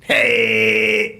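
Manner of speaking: high, drawn-out American hey; long American greeting call; American accent. Pretend. Repeats the American-sounding hey.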